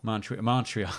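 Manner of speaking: Montreal said in a slightly American accent. Shown as a demonstration. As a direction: lean a little American on Montreal. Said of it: "kind of more American".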